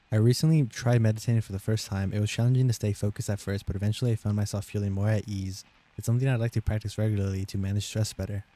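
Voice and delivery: measured test-sentence read; steady read-aloud pace. Shown as a demonstration. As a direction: read the paragraph out carefully. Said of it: "I'll read it slower".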